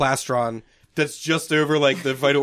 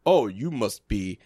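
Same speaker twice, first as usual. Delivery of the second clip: put-on British accent; much slower than usual. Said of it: "in a British accent".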